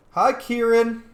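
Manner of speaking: high, loud hello; excited greeting. Real, not acted. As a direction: call out a delighted hello. Greets game character on screen.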